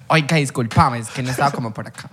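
imitar suavemente el acento colombiano de Pereira. Acted. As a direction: habla como alguien de Pereira. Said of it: "Ese como de Perreira". (acento pereirano, en broma)

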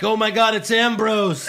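mock fan excitement. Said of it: "they're like".

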